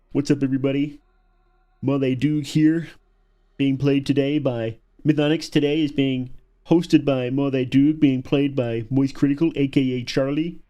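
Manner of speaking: a playful send-up of a channel host's opening; Moist Critical intro. Pretend.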